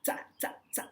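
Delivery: "ta" as a sharp, repeated ts syllable; short "ta" with German ts; hard German Z. Shown as a demonstration. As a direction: drill "ta" with a hard T-S start. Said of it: "more like a T S sound".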